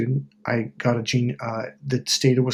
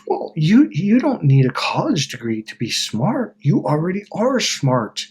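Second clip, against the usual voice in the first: wizard reassurance; 4 semitones higher than usual. Retold or imitated. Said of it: "the wizard goes".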